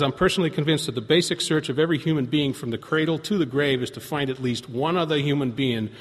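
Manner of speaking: earnest reading of a pamphlet; sincere reading of a quotation; reading aloud. Shown as a demonstration. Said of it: "It says".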